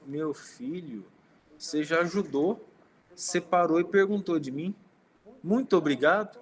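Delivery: slow, tender opening building to heartfelt thanks; grateful old-fashioned tenderness. Retold or imitated. Woman searching for food thanks the student, tender and grateful. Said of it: "eu vi um sorriso tão bonito".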